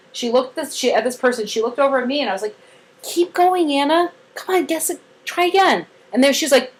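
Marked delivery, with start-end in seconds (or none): 3.0-5.9 high, coaxing cheer; retold encouragement. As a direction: urge a child on in a higher voice.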